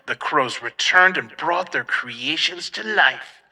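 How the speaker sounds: loud, booming trailer narrator; microphone voice. Pretend. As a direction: boom it out like a haunt trailer. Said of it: "we'll do a microphone voice for this one".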